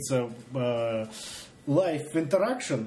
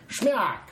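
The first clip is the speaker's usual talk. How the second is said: voiced splat, pitched up; splat sound effect; 5 semitones higher than usual. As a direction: punch out a sudden splat. Imitates the bomb landing in truck.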